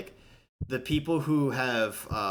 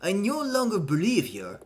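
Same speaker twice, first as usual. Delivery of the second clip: put-on amateur Russian accent, deliberate and emphatic; hammed-up Russian accent; 4 semitones higher, 3 dB louder than usual. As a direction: voice a stern character with a rough Russian accent. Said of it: "I can't do a Russian accent".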